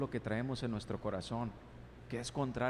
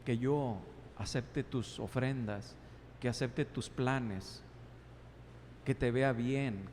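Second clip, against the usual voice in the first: tender God; 3 semitones lower than usual. Acted. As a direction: gently reason with Cain. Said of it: "Le estaba diciendo".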